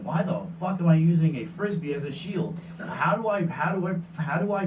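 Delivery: mock frantic confusion. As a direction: act flustered, tripping over repeated words. Acting out Sean fighting in confusion.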